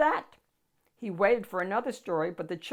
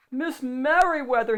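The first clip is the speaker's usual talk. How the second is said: calling loudly across the library; loud urgent call; 5 semitones higher, 8 dB louder than usual. A narrator's reading. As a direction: call her name urgently. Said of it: "he called".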